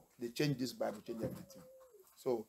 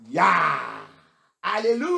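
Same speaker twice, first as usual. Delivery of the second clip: louder, higher alléluia; mock cry of praise; 4 semitones higher, 12 dB louder, slower than usual. Preacher imitates everyone crying Ya alléluia, mildly loud. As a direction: call it out like the crowd. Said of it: "tout le monde crie".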